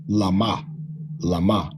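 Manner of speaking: "lama" with open a, the wrong way; wrong reading. Shown as a demonstration. Teacher shows the reading to avoid. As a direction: say "lama" with flat open a as the mistake. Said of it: "And definitely not".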